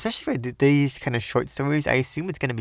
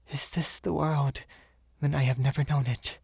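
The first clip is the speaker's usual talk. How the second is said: higher, softer voice full of wonder; wondering young woman; 3 semitones higher, 3 dB quieter than usual. Acted. Woman seeing the world anew, in a higher hushed voice. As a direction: marvel at the sunlight, hushed.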